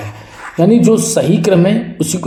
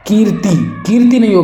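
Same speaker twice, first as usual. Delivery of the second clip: गलत रूप पर ज़ोर; 5 semitones higher than usual. Shown as a demonstration. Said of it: "छोटी की मात्रा लगेगी". (ऊँची आवाज़ में कीर्ति)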